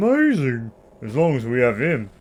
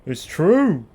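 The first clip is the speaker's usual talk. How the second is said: put-on posh boy voice. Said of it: "posh boy voice".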